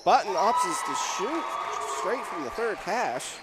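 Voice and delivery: punchy basketball call, lifting on key moments; live play-by-play. Real, not acted. Announcer tells listeners Button opts to shoot, live play-by-play. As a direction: call the action as it happens.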